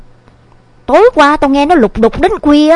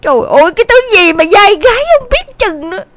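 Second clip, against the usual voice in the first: exasperated, groaning grumble; angry mother; 4 dB louder than usual. A narrator's reading. Mother reacts to son running off, mildly furious lament. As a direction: curse a runaway son with understated fury. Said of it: "Thấy mẹ bốc hỏa giận dữ".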